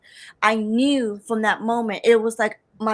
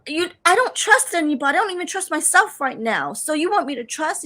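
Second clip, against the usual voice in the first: mad; 6 semitones higher than usual. Retold or imitated. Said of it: "And of course I get mad".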